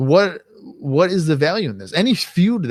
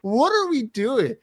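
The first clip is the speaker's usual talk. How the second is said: much higher incredulous outburst, slowing at the end; 12 semitones higher, slower than usual. Retold or imitated. Fan reacting to the fireworks celebration, high incredulous cry. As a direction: shriek it in disbelief. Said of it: "I'm like".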